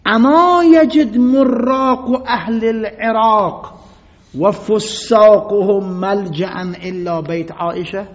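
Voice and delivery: slow, loud, high calling out; slow ringing rebuke; retold shout. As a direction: proclaim it across the courtyard, drawn out. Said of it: "برگشت از اونجا داد زد".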